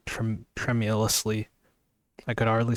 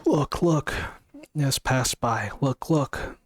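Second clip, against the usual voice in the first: excited; 4 semitones higher, slower than usual. Acted. Narrator urges her to look.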